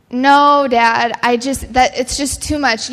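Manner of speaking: put-on a little girl pushing back at Dad; mildly distressed plea, starting loud; pleading refusal. Daughter refuses to give up pearls.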